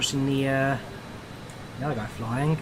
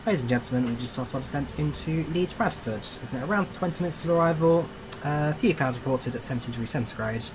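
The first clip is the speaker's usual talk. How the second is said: plane cabin announcement. Shown as a demonstration. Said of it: "I'm gonna start that again".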